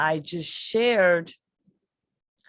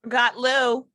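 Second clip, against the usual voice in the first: calling out; 7 semitones higher, 6 dB louder than usual. Real, not acted. Cast member calls out omission.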